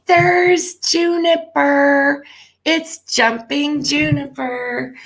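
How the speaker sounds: excited pet talk. Real, not acted. Cat appears, owner calls out.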